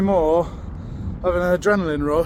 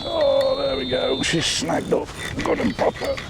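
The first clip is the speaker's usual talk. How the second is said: much higher, startled exclaim; surprised; 11 semitones higher, 6 dB quieter than usual. Real, not acted. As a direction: caught off guard by the snag. Rod suddenly snags.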